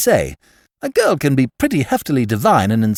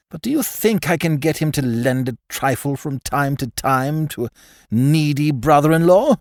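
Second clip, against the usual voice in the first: bitterly; 3 semitones higher than usual. Acted. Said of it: "said Lucius Pym bitterly".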